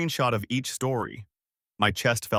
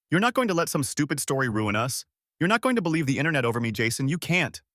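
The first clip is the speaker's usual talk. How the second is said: angry; 3 semitones higher, faster than usual. Acted. Girlfriend pleading furiously.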